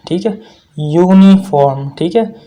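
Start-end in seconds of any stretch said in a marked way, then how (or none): 0.8-1.9 यूनिफॉर्म said slowly with a clear yoo sound at the start; slow teacher demo. Shown as a demonstration. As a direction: model यूनिफॉर्म slowly for the class. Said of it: "ये sound produce करता है यू वाला".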